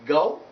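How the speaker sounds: "go" gliding towards u; diphthong oh. Shown as a demonstration. Teacher modelling the word, gliding diphthong. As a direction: slide the vowel of "go" into u. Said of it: "So that's why you say".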